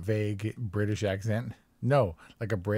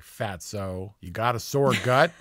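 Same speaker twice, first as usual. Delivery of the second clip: forceful, clear; 3 dB louder than usual. Acted. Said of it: "very forcefully and clearly".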